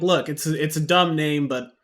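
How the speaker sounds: loud ranting NPC. Acted. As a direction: bluster at the player like a grumpy dealer. GM voices ranting NPC Morris.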